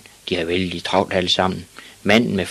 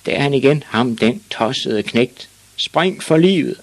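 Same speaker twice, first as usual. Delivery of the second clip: raised, higher warning to the others; alarmed shouting; 5 semitones higher than usual. Acted. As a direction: call out a warning to run for your life. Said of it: "råbte lystfiskeren".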